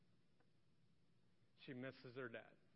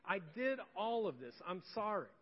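honest apology; 4 semitones higher than usual. Shown as a demonstration. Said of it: "be honest about it and say".

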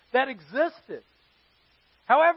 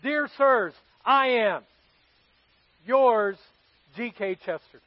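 reading Chesterton's letter. Retold or imitated. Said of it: "here's his response".

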